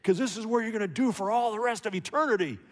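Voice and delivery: mock choir director bellowing at the boys. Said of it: "bellows out".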